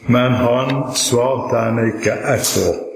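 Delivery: slow, weighty stress on "ikke ett ord"; underlined sentence. Shown as a demonstration. Preacher underlining the key verse for listeners, slow and emphatic. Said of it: "sette en kraftig strek under en setning".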